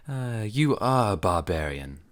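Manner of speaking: laughing. Acted. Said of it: "laughed Thalus".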